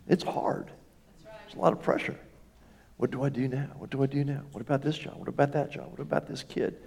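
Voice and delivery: fretful, breathy inner voice of worry; mock anxious worrying. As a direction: play the panicked believer asking what now. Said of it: "There's tremendous pressure in that".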